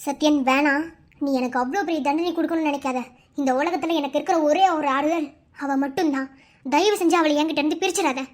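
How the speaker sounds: pleading. Acted. Mother begs him not to separate.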